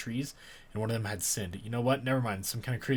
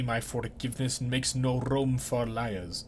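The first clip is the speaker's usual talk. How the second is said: stern warning; slower than usual. Acted. Cutter warns tree.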